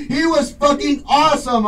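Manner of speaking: usual speaking voice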